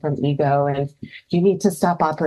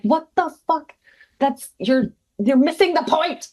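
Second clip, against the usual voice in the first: exasperated quote; 11 semitones higher than usual. Retold or imitated. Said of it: "I'm like".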